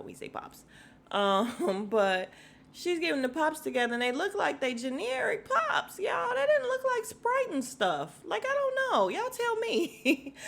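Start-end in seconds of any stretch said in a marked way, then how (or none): 0.0-0.6 whispered aside. Real, not acted. Aside about Chicago word. 2.7-10.3 squealing high with laughter; laughing hard. Real, not acted. Laughing at generic sodas.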